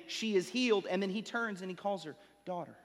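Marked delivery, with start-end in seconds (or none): 2.4-2.8 softly retold tender address; gentle, tender. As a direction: say it gently, quietly, as Jesus to the woman. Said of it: "speaking to this woman gently and tenderly".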